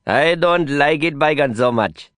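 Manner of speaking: drawn-out, mildly scornful delivery; sneering. A narrator's reading. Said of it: "he sneered".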